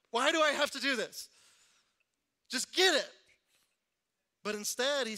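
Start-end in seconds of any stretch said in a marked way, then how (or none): 0.1-3.1 exasperated complaint. Retold or imitated. Retelling frustration at counseling.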